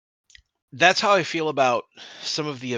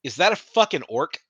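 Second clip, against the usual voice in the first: laughing quote; 5 semitones higher, 4 dB louder than usual. Retold or imitated. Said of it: "he's like".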